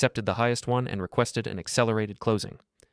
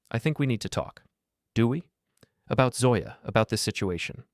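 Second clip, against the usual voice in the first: a hint of a tense Frenchman; lightly voiced, uneasy caller; ex-boyfriend phoning the husband, tense; strained, uncertain Alain. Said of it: "now it sounded strained, uncertain".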